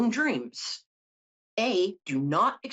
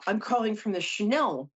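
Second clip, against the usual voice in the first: put-on French accent, pitched up; 4 semitones higher than usual. French caller from Chanel phoning about a job, French accent. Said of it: "I'm not gonna do the accent anymore".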